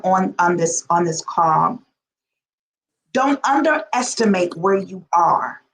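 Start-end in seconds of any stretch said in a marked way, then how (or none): 3.1-5.6 lightly voiced prophetic word; voice of God. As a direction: deliver it like a prophecy. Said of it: "hearing the voice of God say".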